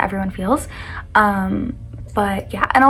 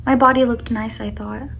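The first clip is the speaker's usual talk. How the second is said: poem reading. Acted. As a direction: read it like a heartfelt poem. Reads her own poem aloud.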